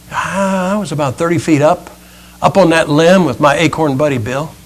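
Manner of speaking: soft, dejected acorn voice; winded, upset acorn. Acted. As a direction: lightly play a spent little acorn. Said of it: "He's kind of winded. He's looking a little upset".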